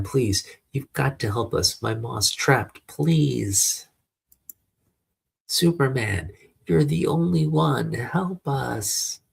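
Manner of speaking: high, pleading cries for help; desperate yell. Acted. Boy begs hero to save trapped Ma, desperate yell. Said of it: "I've got to yell louder".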